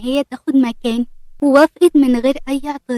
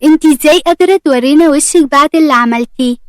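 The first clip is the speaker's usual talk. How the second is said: raised, louder accusation; angry; 2 semitones higher, 4 dB louder than usual. Acted. Mariam confronting Aseel in anger, raised voice. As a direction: hurl it at her, furious. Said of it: "مريم وهي متعصبة".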